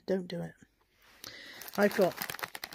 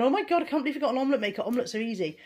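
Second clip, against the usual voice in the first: mock disbelief; 3 semitones higher, 3 dB louder, faster than usual. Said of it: "some of you may be going".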